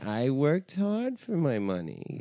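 slow impression of a billionaire politician; lazy-sounding mock politician, unhurried; Bloomberg. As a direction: drag the words out as a put-on politician. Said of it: "That's a good Bloomberg".

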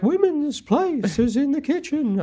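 high, slow, strained Emo Phillips voice; high slow comic whine; Emo Phillips impression. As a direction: squeeze the pitch way up and drag it out. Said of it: "If Emo Phillips was like".

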